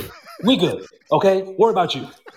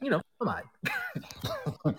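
squeaky falsetto; 12 dB quieter, slower than usual. Pretend. Mock high reassurance.

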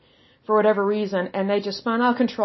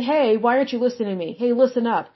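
mock a rude nagging tone; disrespectful demand; 3 semitones higher than usual. To God, showing how not to pray: quick rude demand. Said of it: "that would be very disrespectful".

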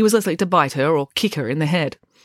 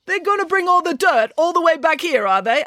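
high-pitched, doubting Russian teacher; skeptical; 13 semitones higher than usual. A narrator's reading. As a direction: question it in disbelief. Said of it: "asked Mister Popov skeptically".

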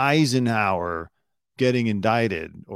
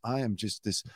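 mocking Ari Melber. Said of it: "he says it like this".

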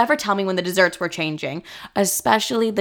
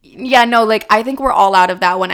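louder, flustered yeah no; flustered backpedal; 6 dB louder than usual. Retold or imitated. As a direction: scramble to cover, loudly.

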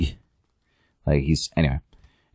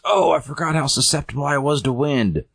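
high-pitched mock lament; tarp detective; 9 semitones higher than usual. Tarp detective carried off by wind, high mock dismay. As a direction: wail it in a raised cartoon voice.

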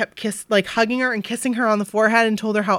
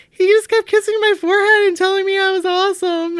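higher, swooning retelling; bubbling over about the forehead kisses; gushing fan; 10 semitones higher, 4 dB louder than usual. Retold or imitated. Bryn gushing to her friends after the concert, higher and giddy. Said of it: "he goes".

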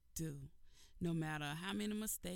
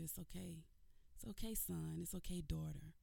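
softer, tender comforting; gentle reassurance; 4 dB quieter than usual. Acted. God comforting a child who messed up, softer tender reassurance. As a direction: soothe them like a loving parent.

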